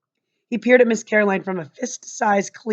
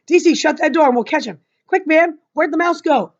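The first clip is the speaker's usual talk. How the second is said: excited; 6 semitones higher, 4 dB louder than usual. Acted. Boy urgently hunting the mouse.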